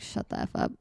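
voiceless whispered mock retort; unvoiced whispered comeback; mock hiss. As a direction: breathe it out with no voice, mock annoyed. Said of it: "Everyone who's upset is like".

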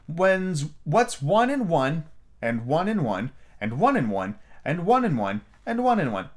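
high, drawn-out queenly voice; quizzing queen. A narrator's reading. White Queen setting Alice an addition sum, quizzing. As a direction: reel it off as a haughty queen's test.

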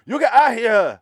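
loud, high mock Asian accent; hammed-up Asian-accented yell; exaggerated Asian accent. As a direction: imitate an actor's overdone Asian accent, shouting. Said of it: "he's doing a super Asian accent".

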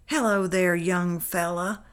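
ordinary delivery

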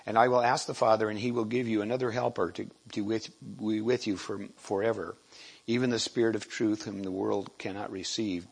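declaiming scripture, gradually settling; scripture reading. Acted. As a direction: read the passage to the congregation. Reads scripture passage aloud.

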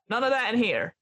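put-on librarian scolding in an American accent. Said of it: "Oh, sorry, American accent".

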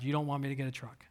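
fast, sulky whisper at God; a whispered sulky accusation; whispered complaint. Retold or imitated. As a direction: hiss the grumble under your breath. Mad, sulking in the garage.

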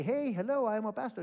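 loud, high mock introduction; sarcastic over-announcing yourself. Pastor mocks introducing himself loudly to the vet, sarcastic. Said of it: "should I say".

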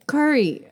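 imitated cousins' "Curry", KUR-ee; Brazilian mispronunciation. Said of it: "they can't do it".

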